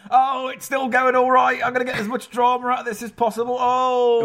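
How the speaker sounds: high, loud, melodramatic dying actor; milk the death scene for all it's worth; ham actor death scene. Retold or imitated. Mocking their live shows as a hammy dying actor. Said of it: "like a ham actor who's been shot".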